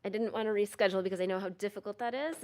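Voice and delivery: muffled through a mask; speaking through a face mask; oxygen mask. Real, not acted. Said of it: "Can you hear me okay with the mask?".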